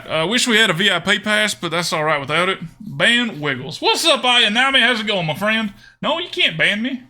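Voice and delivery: put-on Southern US accent. Streamer talking strategy with chat, Southern accent. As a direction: commentate in a folksy Southern accent. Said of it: "I really like doing the accent".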